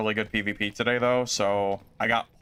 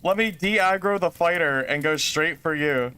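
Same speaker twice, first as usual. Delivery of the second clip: mock villain voice; 7 semitones higher, 3 dB louder than usual. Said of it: "That mage said".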